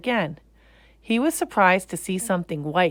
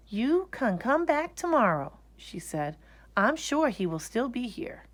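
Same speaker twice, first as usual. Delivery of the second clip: lightly higher gentle mother; mother's voice; 6 semitones higher than usual. Acted. Mother telling Lisa they must go home. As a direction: soothe the child but hurry.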